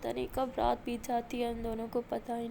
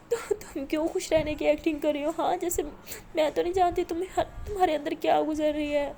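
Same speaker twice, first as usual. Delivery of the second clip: high, louder desperate plea, close to tears; tearful pleading; 4 semitones higher, 5 dB louder than usual. Acted. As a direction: beg her to stay, voice rising and cracking. Maya begs Aliya not to leave. (روتے ہوئے التجا)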